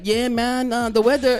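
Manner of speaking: mimicking Hispanic-accented small talk; copied Hispanic accent. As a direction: slip into your friend's Hispanic accent. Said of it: "I'm talking like him".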